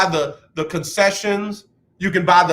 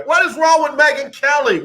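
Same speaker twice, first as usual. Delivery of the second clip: exasperated shout; 5 semitones higher than usual. Real, not acted. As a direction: yell it out, fed up. Ranting at the same question.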